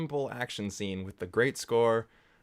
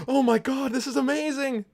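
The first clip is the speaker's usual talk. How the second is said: crowd going wild; 13 semitones higher than usual. Retold or imitated. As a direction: burst out like a thrilled audience. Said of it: "just the crowd going".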